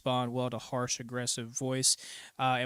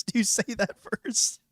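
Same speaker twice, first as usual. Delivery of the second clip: mocking voice; 7 semitones higher, slower than usual. Mocking agreement.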